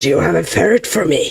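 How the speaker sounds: low, raspy trench-coat film-noir character voice. Imagining a film noir scene with trench coats and cigars: raspy film-noir voice. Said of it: "very kind of a raspy voice".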